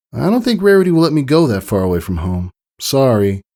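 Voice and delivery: put-on a young filly letting a friend down gently; quick, sorry little pony girl; Sweetie Belle. Sweetie Belle, eyes downcast.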